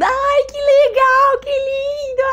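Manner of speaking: very high delighted squeal; mock excited squeal. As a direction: gush like a thrilled kid.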